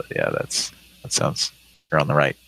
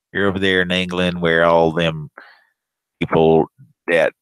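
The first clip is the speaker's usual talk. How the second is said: mock ignorant caller; slower than usual. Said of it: "'cause he".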